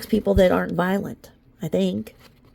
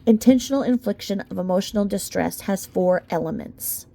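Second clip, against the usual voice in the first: measured, even legal read; steady courtroom-brief reading voice; formal document reading. Acted. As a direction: read it like a lawyer's filing. Reading the legal complaint aloud.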